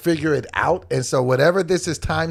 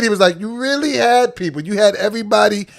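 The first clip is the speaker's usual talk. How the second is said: retold scolding; 7 semitones higher, 4 dB louder than usual. Gym guy lectures him.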